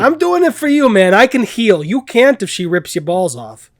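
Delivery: put-on high, loud, mangled Cockney-Chicago accent; bad Cockney Chicago accent. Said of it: "What the fuck was that accent?".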